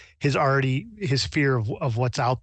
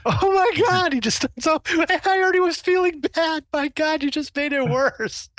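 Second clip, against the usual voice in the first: wailing dismay. Acted. Distraught miner's kid protests blunt criticism, wailing. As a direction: wail that they've made you feel worse.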